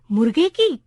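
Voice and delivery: put-on mildly excited old clerk's question; happy cry. A narrator's reading. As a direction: perk up with a touch of delight. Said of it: "clerk खुशी से चिल्लाया". (हल्की खुशी से चहककर)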